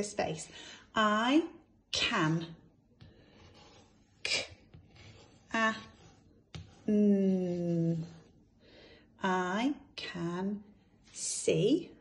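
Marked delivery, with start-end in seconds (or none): 4.2-8.1 each sound said apart, slow and separate; segmented phonics sounds; sounding out letters. Shown as a demonstration. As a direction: break the word into its sounds. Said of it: "So let's sound it out".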